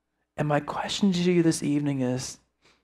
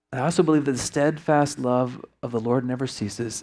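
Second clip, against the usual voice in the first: low, measured closing prayer; sincere talk to God with reflective pauses; 3 semitones lower, 3 dB quieter than usual. Real, not acted. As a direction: lead them in earnest, unhurried prayer.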